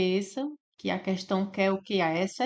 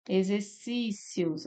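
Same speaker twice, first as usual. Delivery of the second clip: "Exercícios" slowed, with the last syllables pulled apart; syllables separated; much slower than usual. Shown as a demonstration. Teacher correcting the division, "Exercícios" with separated ending. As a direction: say "Exercícios" slowly, stretching and splitting off the ending.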